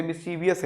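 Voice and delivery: mischievous as mis-CHEE-vee-us; four-syllable mischievous; common mispronunciation. Shown as a demonstration. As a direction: add an extra "ee" in mischievous, "vee-us". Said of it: "जो हम गलत कर रहे हों".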